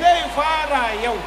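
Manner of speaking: emphatic shout. Real, not acted. Interpreter repeats preacher's emphatic line.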